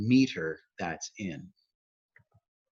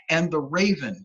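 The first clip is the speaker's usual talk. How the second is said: "And the raven" higher, stresses bitten down hard; biting down on words; 4 semitones higher than usual. Shown as a demonstration. Poet quoting Poe's agitated protagonist, biting down on the words. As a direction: bite into the beats of "And the raven". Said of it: "he's biting down on his words".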